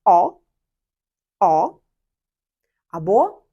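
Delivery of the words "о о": "о" held wide and open, rising; louder, long "о" as a lone answer; long broad O. Shown as a demonstration. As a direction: lengthen "о" into one broad vowel. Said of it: "довгий, широкий".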